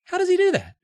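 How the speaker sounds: high, loud, stretched wonder; amazed cry. Acted. Dad marveling at the frozen snowman, high and loud. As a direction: gush it in awe. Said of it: "Dad cried".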